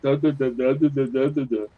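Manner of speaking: low, soft run of stuck syllables; imitated tongue-tied stammer. Buzzed host recalling his failed show PSA, tongue-tied. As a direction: mimic yourself failing to get the words out. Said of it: "I couldn't even say it".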